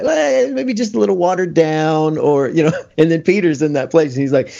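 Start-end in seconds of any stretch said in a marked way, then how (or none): 0.0-2.2 wry dismissive. Retold or imitated. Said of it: "you talk about another guy".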